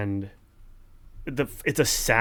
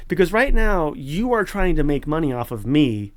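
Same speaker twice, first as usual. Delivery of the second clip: higher, louder accusation; righteous anger; 4 semitones higher, 5 dB louder than usual. Real, not acted. Accusing the author of profiting off him, angry. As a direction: accuse them, really indignant. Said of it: "That was some good righteous anger".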